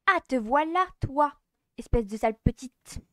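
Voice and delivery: put-on loud furious rival girl; a loud scornful rival; angry rival. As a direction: bite out the greeting in anger. Rival confronts her angrily.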